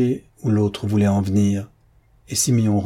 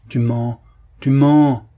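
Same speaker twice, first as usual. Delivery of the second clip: accusation building to a loud, higher cry; outraged cry; 3 semitones higher, 6 dB louder, slower than usual. A narrator's reading. Officer accusing the old man of lying, uncontained cry. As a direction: burst out, unable to hold back. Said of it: "s'écria l'officier, incapable de se contenir".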